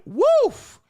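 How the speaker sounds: a sudden, very high, loud yelp of a woof; a squeaky, stunned woof; shocked woof. Retold or imitated. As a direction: let it burst out in disbelief. Men reacting to her college story.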